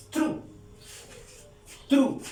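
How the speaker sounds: "true" as TROO, the final E silent. Shown as a demonstration. Teacher showing that final E is silent, "true" said TROO. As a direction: say "true" as one short syllable, TROO. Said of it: "al final no suena".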